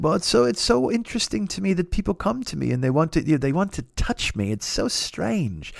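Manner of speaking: lightly attempted English accent; a rough, imperfect English accent impression; John Cleese. Hero explains fans wanting to touch him, attempted English accent. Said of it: "I can't do an English accent".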